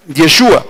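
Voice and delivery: "Yeshua" with stressed SHU and falling end; Aramaic pronunciation demo. Shown as a demonstration. Preacher reading what is in parentheses, "Yeshua" as pronunciation demo. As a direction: pronounce "Yeshua" as a careful model. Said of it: "la pronunciación está entre paréntesis".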